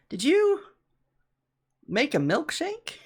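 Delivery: squeaky high disbelieving question; incredulous high question. Acted. Manager asks, amused.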